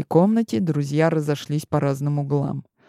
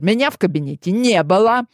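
defiant; 3 semitones higher, 4 dB louder than usual. Acted. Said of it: "дерзко посмотрел".

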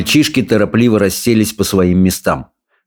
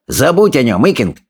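sneering, sing-song bully, pitched way up; jeering bully; 7 semitones higher than usual. A narrator's reading. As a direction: taunt the others with relish.

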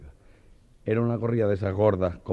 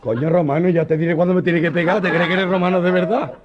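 louder, higher angry scolding; furious rebuke; 9 semitones higher, 10 dB louder than usual. Retold or imitated. The mariquita scolding the Roman soldier, loud and angry. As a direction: tell the Roman off.

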